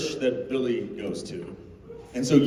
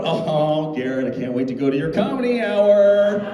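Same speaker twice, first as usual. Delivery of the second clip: high, excited fan chatter; imitating excited fans; eager fans; 8 semitones higher than usual. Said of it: "everyone's coming up going".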